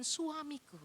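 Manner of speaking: coy seductive wife. Acted. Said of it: "kayak siluman ular putih".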